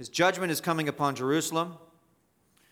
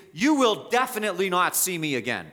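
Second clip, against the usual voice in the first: "definitely not" leaned on, slightly raised; emphatic paraphrase; 3 semitones higher than usual. Shown as a demonstration. Preacher explaining the emphasis of the text to the congregation, stressing "definitely not". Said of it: "So the emphasis is".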